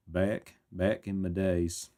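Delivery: slow, practised southern drawl; put-on southern twang, very slow; southern accent. Shown as a demonstration. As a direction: draw the words out in a southern accent. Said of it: "with a southern accent".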